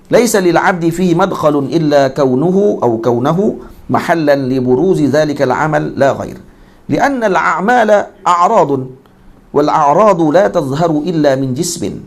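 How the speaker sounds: measured slow Arabic text reading; slow recitation. Acted. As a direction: intone the classical text slowly.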